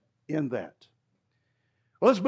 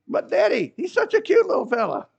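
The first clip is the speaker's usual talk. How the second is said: 高声模仿孩子哀求; high, pleading kid's voice for the lamb; pleading child; 11 semitones higher, 5 dB louder than usual. Retold or imitated. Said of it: "that made the kids mad".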